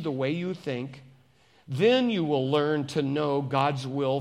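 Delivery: measured, earnest Bible reading; scripture reading. Acted. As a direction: read scripture aloud with deliberate phrasing. Reads scripture to congregation.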